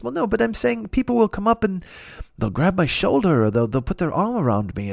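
lightly attempted English accent; badly faked English accent, explaining; John Cleese. Hero complains of grabby fans, badly faked English accent. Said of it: "I can't do an English accent".

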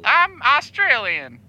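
slow, put-on Aussie accent; faked Australian accent. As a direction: stretch it out in mock Australian. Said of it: "He is Australian".

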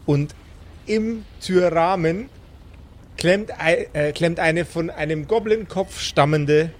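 slow, measured scene setting; calm storyteller over music; game master narration. A narrator's reading. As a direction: set the scene for the players.

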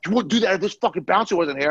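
high mock enraged threat. Enraged bro threatening while bouncer holds him, high mock yell. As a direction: sneer it while being held back. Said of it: "He goes".

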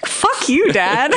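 high first words, breaking into laughter; indignant comic retort; mock outrage. Daughter cursing dad in thought, high mock anger.

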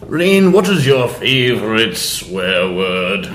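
slow solemn interviewer question; James Lipton. Acted. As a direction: ask slowly with mock gravitas. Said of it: "we have to do the James Lipton".

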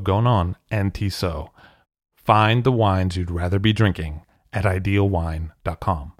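scripted, measured wine ad; sponsor ad read. Acted. Host pitching wine shipped to the States, sponsor ad read. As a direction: read it like a podcast sponsor spot.

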